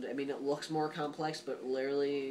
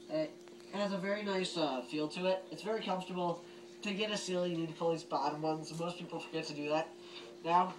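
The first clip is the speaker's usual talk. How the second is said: talking through a gas mask voice emitter; muffled mask voice, slightly higher; 4 semitones higher than usual. Real, not acted. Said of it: "I'm gonna put it on so you get to see the voice emitter".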